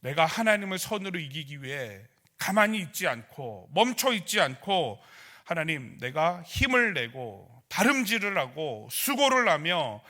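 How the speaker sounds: resolute prayer, easing at the end; acted prayer. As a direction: model an earnest vow to God. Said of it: "기도할 때".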